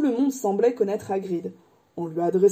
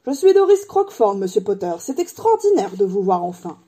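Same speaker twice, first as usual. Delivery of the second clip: gushing admirer; 4 dB louder than usual. Acted. Doris meeting Harry at last, gushing excitement. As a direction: introduce yourself to your idol, gushing. Admirer meets her idol.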